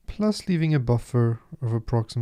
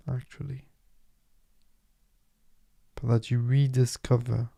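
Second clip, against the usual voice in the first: guided meditation. Acted. Guide leading listeners into posture and dedication, calm meditation voice. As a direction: guide them calmly, leaving space between phrases.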